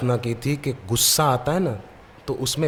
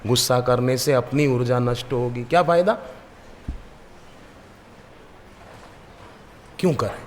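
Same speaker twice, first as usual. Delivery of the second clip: calming oneself. Shown as a demonstration. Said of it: "हम अपने को कहेंगे".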